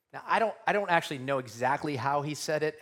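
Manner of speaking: ordinary talk, nothing marked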